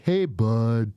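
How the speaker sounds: lightly put-on agent spiel; cliché federal agent. Agent phones the suspect, lightly mocked cliché lawman. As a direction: lightly imitate an over-familiar lawman. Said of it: "super, like, fucking cliche".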